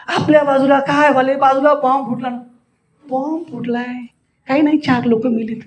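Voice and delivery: nonchalant, even reporting; unruffled calm. Shown as a demonstration. Speaker reports a bomb blast nearby, utterly unbothered. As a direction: shrug off disaster without excitement. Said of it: "एवढं शांत".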